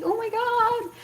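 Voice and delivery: mock amazement. Hit by a cart, now partying with drivers, mock amazement. Acts amazement at her luck.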